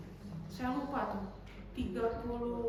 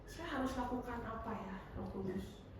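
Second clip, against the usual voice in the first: soft, low, humble asking; prayer for help; 6 semitones lower, 11 dB quieter than usual. Acted. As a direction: ask quietly, as in private prayer. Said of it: "minta tolong sama Roh Kudus". (doa lirih minta tolong)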